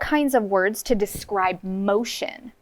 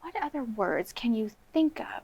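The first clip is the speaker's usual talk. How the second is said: soft hushed prompt; whispered question; 7 dB quieter than usual. Real, not acted. Teacher whispers question to class.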